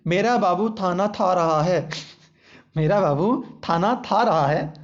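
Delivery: mock baby lisp, "थाना था" with th for kh; lisping baby talk. Shown as a demonstration. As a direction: lightly lisp "थाना था रहा है" like a toddler. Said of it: "मैं तो इसी तरह बोलूँगा जिस तरह सब बोलते हैं".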